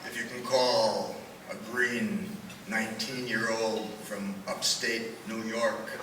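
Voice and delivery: poem recital, measured pauses; cowboy poetry. Acted.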